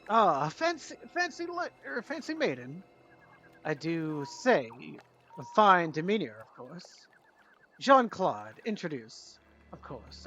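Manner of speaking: a lightly voiced flirtatious dandy, rising on fancy; flirtatious gentleman. Jean-Claude flattering the lady, lightly flirtatious. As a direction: charm her with mock gallantry. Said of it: "turns to Rome and he says".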